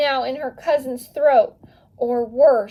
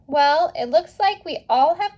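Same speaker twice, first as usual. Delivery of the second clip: brighter, higher cheerful aunt; 6 semitones higher than usual. A narrator's reading. Aunt Rosa cheers up the family about more tamales, cheerful. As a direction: lift the mood with a cheerful offer. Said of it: "Rosa said cheerfully".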